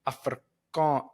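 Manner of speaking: Afrikaan- with a rolled R, drawn out. Retold or imitated. Comic showing how South Africans say Afrikaan-, rolled R. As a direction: roll the R in Afrikaan-, slowly. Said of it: "rolled the R's, like".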